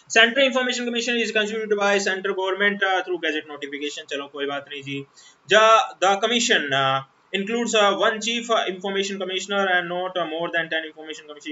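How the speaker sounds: reads the act's wording out slowly, word by word; slow dictation reading. Shown as a demonstration. Teacher reading the act to students, slow dictation. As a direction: spell out the legal text at dictation pace.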